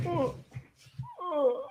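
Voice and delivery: soft, high-pitched dog 'oh'; imitated dog noise. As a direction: mimic the dog's little noises, softly. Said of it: "he just goes like this. He goes".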